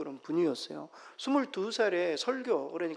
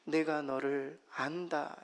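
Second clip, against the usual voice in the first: slow, tender whisper; gentle whisper; 3 semitones lower, 5 dB quieter, slower than usual. Retold or imitated. The Lord speaking comfort to a tired believer, tender whisper. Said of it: "이렇게 말씀하세요".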